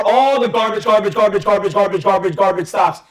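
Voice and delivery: every repeated "garbage" punched in rhythm; stress on garbage. Retold or imitated. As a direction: hammer out "garbage" over and over like a list. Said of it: "I stress the word garbage".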